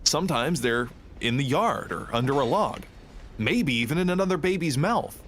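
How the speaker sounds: sing-song educational narrator; earnest parody of a kids' fact show; mock fact presenter. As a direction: swoop up on key words, mock-informative. Quotes absurd fact-attack video lines.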